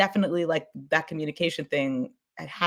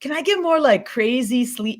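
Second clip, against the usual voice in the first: much higher, pleading voice; high-pitched request; 9 semitones higher, 4 dB louder than usual. Retold or imitated. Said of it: "I was like".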